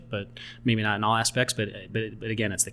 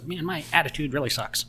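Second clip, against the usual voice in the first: put-on old-timey voice; 4 semitones higher than usual. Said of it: "So his old-timey voice".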